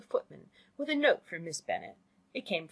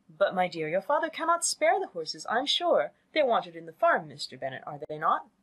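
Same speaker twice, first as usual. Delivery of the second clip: louder, pitch-swinging motherly objection; insist, then appeal to the husband; insistent mother; 4 dB louder than usual. Acted. Mother refusing the coach and seeking husband's backing, insistent.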